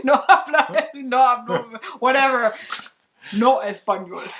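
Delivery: giggling through the mock Spanish; laughing. Real, not acted. Wife laughing at her own broken Spanish.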